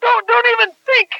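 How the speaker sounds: indignant, halting warning; angry warning. Real, not acted. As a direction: cut them off with a stern threat. Warning during a heated phone quarrel.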